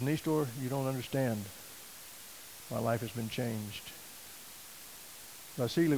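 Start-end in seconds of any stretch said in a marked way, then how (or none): 0.0-3.8 calm, soft and unhurried. Retold or imitated. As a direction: settle him down gently, a lightly voiced friend. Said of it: "very calmly".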